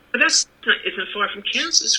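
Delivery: excited cry. Acted. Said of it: "cried Dorothy".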